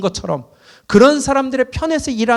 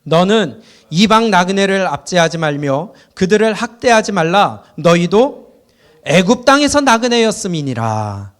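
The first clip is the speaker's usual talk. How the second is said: reading scripture aloud in unison, a touch louder; loud group scripture reading. Real, not acted. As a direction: read the verse out together, firm and steady. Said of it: "우리 크게 읽습니다".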